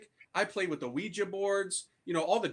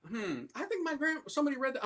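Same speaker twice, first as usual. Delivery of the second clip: mocking classmate; 8 semitones higher, 3 dB quieter than usual.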